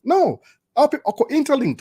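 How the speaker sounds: emphatic no. Real, not acted. Emphatic contradiction.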